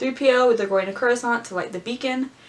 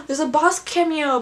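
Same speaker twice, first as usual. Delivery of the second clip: surprised gasp; 5 semitones higher, 3 dB louder than usual. Real, not acted.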